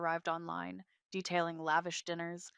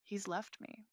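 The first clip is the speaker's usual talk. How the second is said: softer, lightly broken confession; voice cracking; 2 semitones higher, 5 dB quieter than usual. A narrator's reading. Wife to her mother-in-law, voice cracking. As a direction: feign a small crack of heartbreak. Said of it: "letting my voice crack".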